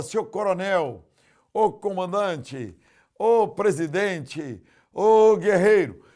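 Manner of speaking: rising proclaiming call, ending in a shout; building praise call. Retold or imitated. Pastor voices praise to boys.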